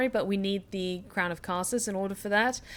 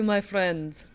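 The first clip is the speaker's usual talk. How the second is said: put-on Russian accent. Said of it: "The Russian accent has been requested".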